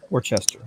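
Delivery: Worcester said wor-chester, with a ch sound; Worcester, slipping a ch into the middle. Shown as a demonstration. A streamer mocking the wrong way. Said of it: "there's no H in there".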